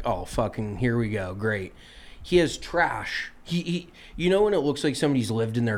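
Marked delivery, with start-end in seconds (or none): 0.0-1.7 softer, deflated sarcastic grumble; resigned sarcasm. Retold or imitated. Golfer grumbling about sharing a messy cart, resigned and sarcastic. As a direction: sigh it out like you've already given up. Stuck riding with messy guy.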